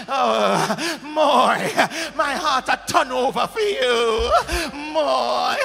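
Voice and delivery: hammed-up lovesick cry; overdone tearful plea of love; mock passionate wail. Pastor mocking a bored husband, with a hammed-up lovesick wail.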